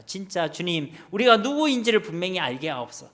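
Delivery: earnest congregational prayer, pressing through each plea; real, impassioned spoken prayer; fervent prayer. Real, not acted. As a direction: plead with God on the congregation's behalf. Turns from sermon to prayer.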